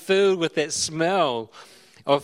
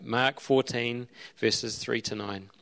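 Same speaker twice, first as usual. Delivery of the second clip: slow reference; 3 semitones lower, 5 dB quieter, slower than usual. Shown as a demonstration. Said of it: "you might wanna look up".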